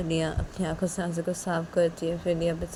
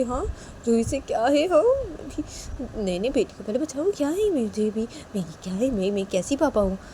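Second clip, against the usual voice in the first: lightly voiced anxious parent, higher; worried papa; 4 semitones higher than usual. Piyu panicking over how to save the daughter.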